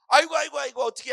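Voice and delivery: high, loud, fretful outcry; panicked wailing mother. Acted. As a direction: wail like an overreacting mother. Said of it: "막 울면서 쫓아가서".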